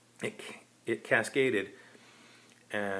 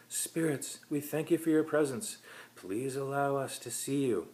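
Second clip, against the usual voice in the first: summoning medium; 6 semitones higher than usual. Acted.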